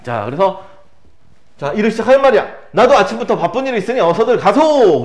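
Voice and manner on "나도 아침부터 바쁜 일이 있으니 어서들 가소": higher, louder character line; lightly dramatized brush-off; acted dismissal. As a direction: send the visitors away, playacting. Reads character's line dismissing visitors.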